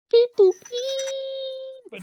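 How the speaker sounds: robot beeps. Acted. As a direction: beep like a toy robot. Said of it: "make silly sounds like".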